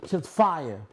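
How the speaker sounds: talking around ice in the mouth. Real, not acted. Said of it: "I got mad ice in my mouth".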